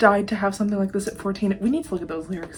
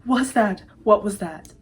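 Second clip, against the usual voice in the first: shocked; 2 semitones higher, 4 dB louder than usual. Real, not acted. Shocked reaction after song.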